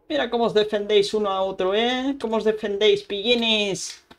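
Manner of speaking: teasing the mobs. Real, not acted. Teasing the mobs fighting back.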